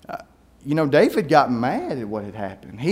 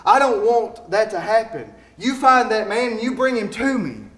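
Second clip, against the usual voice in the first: mild angry king; 7 semitones higher, 6 dB louder than usual. Acted. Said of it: "and David gets real mad".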